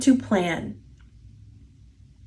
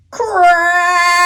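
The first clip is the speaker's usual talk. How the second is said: sharp, higher, louder burst on the word; dramatic exclaimed crack; 7 semitones higher, 5 dB louder than usual. A narrator's reading. Narrator voicing the branch snapping under the witch, sudden exclaimed crack. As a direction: snap it out like a breaking branch.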